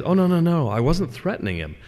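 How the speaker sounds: high-pitched, protesting "oh no no no"; hasty denial. Acted. Death answering the angry master, hasty denial. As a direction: protest innocence, starting high and easing down.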